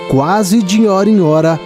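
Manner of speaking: ordinary talk, nothing marked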